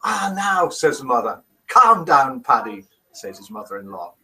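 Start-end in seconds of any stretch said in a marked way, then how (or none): 0.0-0.7 attempted Irish accent. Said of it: "please don't try accents". 1.7-2.9 attempted Irish accent. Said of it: "please don't try accents".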